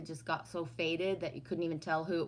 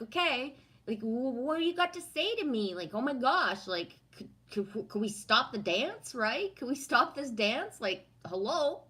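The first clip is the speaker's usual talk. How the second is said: higher-pitched mock pleading with a bee; retold exasperation; 6 semitones higher than usual. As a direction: appeal to a pest to quit it. Retells confronting a pestering bee.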